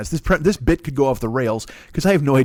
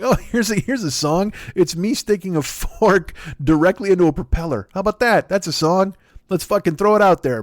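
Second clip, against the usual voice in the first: higher, gleeful mock pitch; mock singer; 5 semitones higher than usual. The speaker mimics a singer's pitch, high and mocking.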